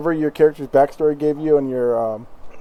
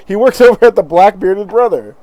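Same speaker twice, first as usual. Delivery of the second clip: innkeeper voice; 5 semitones higher, 7 dB louder than usual. Acted. Retry of the tavern name.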